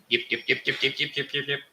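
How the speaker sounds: rising yip-yip alien chatter; Sesame Street Martians. Retold or imitated. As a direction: do the Martians' yips. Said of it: "Sesame Street with the two Martians".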